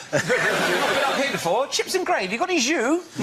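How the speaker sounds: posh Tory. Retold or imitated. Mocking posh Tory in Manchester.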